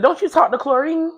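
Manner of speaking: teasing girlfriend, lightly voiced; friend's voice. Friend voiced in retold story.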